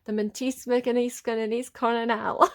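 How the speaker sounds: "The Mentis Mechaniscannis Coronel" as mangled French; garbled French. Real, not acted. Reader attempting a TikTok sound, "The Mentis Mechaniscannis Coronel" garbled. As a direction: stumble through "The Mentis Mechaniscannis Coronel" in made-up syllables. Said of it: "And I cannot say it".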